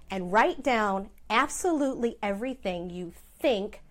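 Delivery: a light stress on think. Shown as a demonstration. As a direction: lean on the word think, a little longer and firmer. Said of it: "I did emphasize the word think there".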